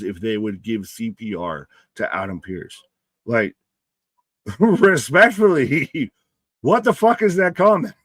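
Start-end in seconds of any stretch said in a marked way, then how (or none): 4.6-6.1 slow, higher, laughing through respectfully; laughing disbelief. Real, not acted. Streamer reacting to a chat question, laughing disbelief. 6.6-7.9 laughing disbelief. Real, not acted. Streamer repeats word, laughing in disbelief.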